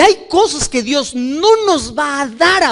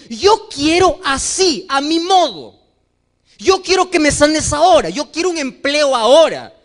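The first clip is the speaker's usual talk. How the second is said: mock demanding prayer; 5 semitones higher, 3 dB louder than usual. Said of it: "vamos a Dios y le decimos".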